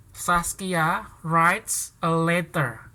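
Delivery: "Saskia writes a letter" dictated at half speed; slow dictation. Shown as a demonstration. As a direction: spell it out slowly so the class can follow. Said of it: "Ayo, siapa yang bisa jawab?". (didiktekan pelan-pelan)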